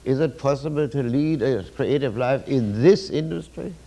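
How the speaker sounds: gloomy, doubtful reading of the question; pessimistic tone. Shown as a demonstration. Lecturer demoing the pessimist's way of asking, glum. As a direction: ask it as if the answer is surely no. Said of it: "But the pessimeter would sound like this".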